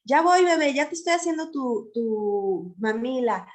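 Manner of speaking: put-on gentle, unhurried reassurance to a crying baby; calm soothing mother. Shown as a demonstration. Mother calming her crying baby, in a tranquil soothing voice. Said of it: "le hablo con este tono tranquilo".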